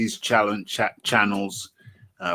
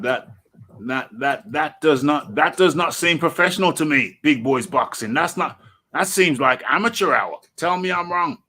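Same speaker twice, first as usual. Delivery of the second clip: indignant; 6 semitones higher, 6 dB louder than usual. Real, not acted. Outraged at the promotion.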